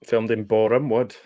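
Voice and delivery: light Welsh lilt, barely there; Welsh accent. Pretend. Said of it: "said that in a Welsh accent".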